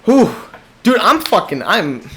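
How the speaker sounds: panting, out of breath; catching breath between words. Real, not acted. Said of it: "I am way too out of breath".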